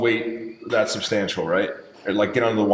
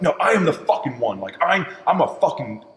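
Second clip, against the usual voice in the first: higher-pitched self-hype; fired up; 4 semitones higher than usual. Retold or imitated. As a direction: re-enact pumping yourself up. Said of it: "I'm all fired up".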